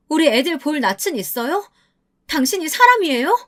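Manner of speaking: rising outrage, voice climbing high; furious confrontation. Acted. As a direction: confront the cheating husband, building to a cry. 남편에게 따지는 장면. (바람피운 남편에게 점점 높아지는 목소리로 울분을 터뜨리며 따지기)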